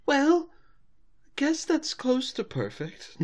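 high, slow, strained concession; frustrated. Acted. Rarity seeing the garnish land on the floor, high frustrated voice. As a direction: concede it slowly through mock frustration. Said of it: "she's completely frustrated".

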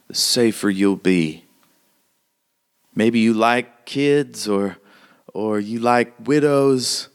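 emphatic, measured frontier woman's warning; hardened townswoman, urgent warning. Acted. Townswoman telling a lady to leave town, urgent warning. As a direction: press each phrase home like a tough local.

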